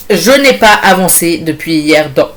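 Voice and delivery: talking through hiccups. Real, not acted. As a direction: hiccups breaking up the words. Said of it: "Excusez-moi, j'ai le hoquet".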